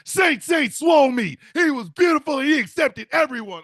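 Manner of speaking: hammed-up preacher hailing a saint; mock reverent shout. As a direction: proclaim it like a devoted follower. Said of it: "what is Triple S?".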